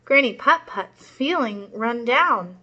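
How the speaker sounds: put-on lively read-aloud for young kids; storybook read-aloud. A narrator's reading. Teacher reading a story to her class, lively storytelling. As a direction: read it out like a children's picture book. Reads picture book to class.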